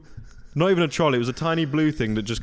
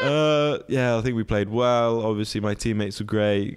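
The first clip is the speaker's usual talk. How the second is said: a light take on a modest post-match footballer; understated player-interview voice; footballer's voice. Retold or imitated. Showing her friend how she answered mum's questions, lightly voiced footballer. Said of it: "I'd speak slowly".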